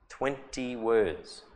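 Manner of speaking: "Twenty words" drawn out slowly; slow emphasis. Shown as a demonstration.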